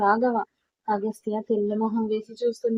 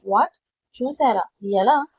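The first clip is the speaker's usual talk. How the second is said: louder, startled questions; surprised; 4 dB louder than usual. Acted. Son stunned that his father saw it, louder surprised asking. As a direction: blurt it out in shock. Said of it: "ఈసారి ఆశ్చర్యంగా అడిగాడు".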